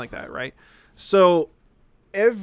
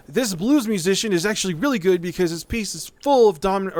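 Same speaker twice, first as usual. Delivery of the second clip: a lightly voiced, overexcited know-it-all kid; gushing idiot kid; 4 semitones higher, 4 dB louder than usual. Mocking a YouTube kid who finds German sixes everywhere, breathless gushing. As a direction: gush over a dumb discovery, a bit higher and louder. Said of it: "is gonna go".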